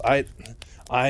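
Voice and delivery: halting, broken false starts; stammering. Retold or imitated. Mike unable to explain himself to Raynor, stammering. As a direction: get stuck on the first word, with a pause. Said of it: "he's stammering a bunch".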